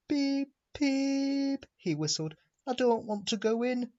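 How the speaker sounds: high, anxious whistle and plea; frightened engine. A narrator's reading. Henry afraid of the tunnel, high and anxious. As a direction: squeak it out in fear.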